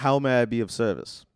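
English butler offering his service; British butler. Acted. Butler asking his master for orders, British and polite. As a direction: play a courteous British robot butler. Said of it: "he's an English robot butler".

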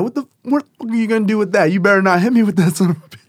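put-on teen daring mom not to swing the board, fast and high; retold angry warning. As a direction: rattle it off high and defiant. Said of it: "I'm like".

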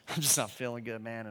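low, croaky fake-sick voice; faking sick. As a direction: put on a sickly voice to bail. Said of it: "we call our friend up and we say".

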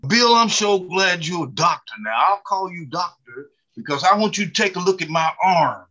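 gushing mock church-lady request; eager church lady. Church lady greets Bill the new doctor, eager.

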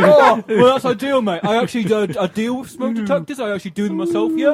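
put-on cockney wide-boy patter; dodgy car salesman. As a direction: sell it like a dodgy geezer. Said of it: "I'm a disreputable second card salesman".

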